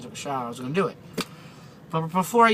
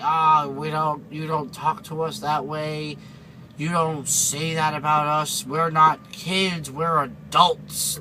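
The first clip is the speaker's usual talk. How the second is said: slow, deliberate mock scolding; indignant scolding; much slower than usual. Offended customer scolding the cashier, slow and indignant. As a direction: spell it out slowly like an offended customer. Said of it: "This lady was like".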